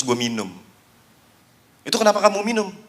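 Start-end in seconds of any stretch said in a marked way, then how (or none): 1.9-2.7 shocked principal. Acted.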